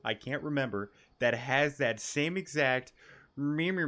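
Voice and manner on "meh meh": imitating a creature's bleating meh; mock bleat, a bit louder and higher. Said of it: "meh voice".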